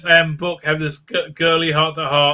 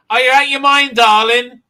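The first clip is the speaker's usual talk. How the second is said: mock Tilly; 6 semitones higher, 4 dB louder than usual. Voicing Tilly mockingly.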